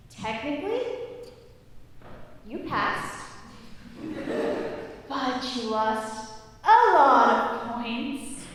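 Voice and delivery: slow, hesitant verdict; a lightly voiced iffy proctor; doubtful proctor. Proctor tells the student the verdict, slow and doubtful.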